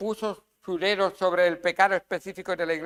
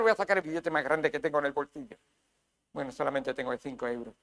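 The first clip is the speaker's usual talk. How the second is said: mock stingy giver; 5 semitones lower, 5 dB quieter, faster than usual.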